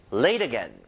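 "late" and "again" each stressed, linked together; stress on both words. Shown as a demonstration. English teacher shows learners the ending, "late again" stressed on both words. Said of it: "양쪽 다 강세".

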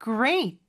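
"Great" with the final t held back; unreleased final T. Shown as a demonstration. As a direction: stop "Great" short on a silent t. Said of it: "T 발음은 시옷 받침처럼".

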